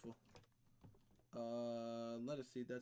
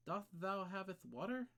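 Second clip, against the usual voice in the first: fake Shakespearean voice; 6 semitones higher, 5 dB louder than usual. Fake Old English voice.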